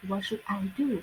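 teacher's wh-question intonation demo; falling question tune. Shown as a demonstration. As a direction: drop the pitch on final "do". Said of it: "ตามท้ายประโยคนะคะ เวลาอ่านต้องอ่านว่า".

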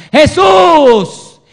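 drawn-out, high, very loud shout; crying out. Acted. Blind man shouting to Jesus for mercy, crying out. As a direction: call out desperately over a crowd. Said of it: "él comienza a dar voces".

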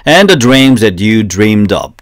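very slow, careful And the dreams that you dreamed of; pronunciation model. Shown as a demonstration. Teacher modelling lyric pronunciation for learners, slow and careful. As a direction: spell out each word of dreamed of for copying. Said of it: "발음을 한번 다시 보면".

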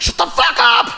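loud, exasperated shout; angry yell. Retold or imitated. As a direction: snap it at the gadget. Yelling at Fitbit.

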